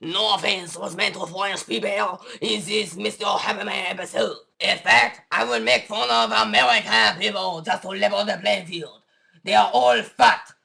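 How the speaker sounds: put-on disclaimer read in a French accent; French-accented mock announcer. French disclaimer, offers croissant.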